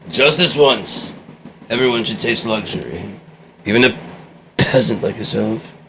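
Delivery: condescend to the servant like a pampered noble; snooty aristocrat. Acted. A lord looks down on a peasant servant, mildly haughty.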